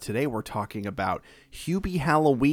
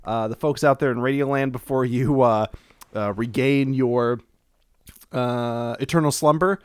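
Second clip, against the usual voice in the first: after laughing hard; 6 dB louder than usual. Real, not acted. Host laughing after the bit.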